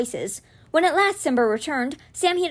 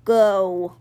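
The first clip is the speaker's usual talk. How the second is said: very slow, drawn-out big-cat voice; giant cat; 4 semitones lower, 4 dB louder than usual. A narrator's reading. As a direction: stretch the words like a great calm beast. Giant cat's dialogue.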